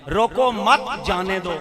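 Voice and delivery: रोको मत run together as one slow, loud phrase, जाने दो set apart; pause moved after मत. Shown as a demonstration. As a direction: join मत to रोको, then say जाने दो. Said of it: "अब मैं कहूंगा".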